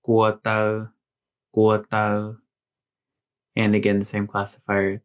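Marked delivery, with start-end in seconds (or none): 0.0-2.4 careful Green Hmong demo; Hmong word. Shown as a demonstration. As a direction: say "guo tau" clearly, in Green Hmong tones. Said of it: "the word is".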